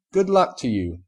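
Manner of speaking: Rarity cheering on her friend; refined Rarity. A narrator's reading. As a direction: encourage her graciously. Rarity wishes her luck.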